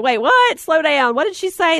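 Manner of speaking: confused man. Retold or imitated. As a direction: ask like a man who can't keep up. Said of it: "A man would be like".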